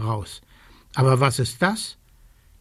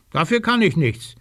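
higher, lightly voiced innocent fib; fibbing; 3 semitones higher than usual. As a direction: play the innocent. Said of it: "schwindelt der kleine Rabe".

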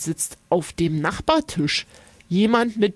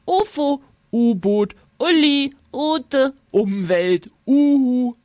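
put-on eager kids calling out; 5 semitones higher, 3 dB louder than usual. A narrator's reading. Children calling out answers.

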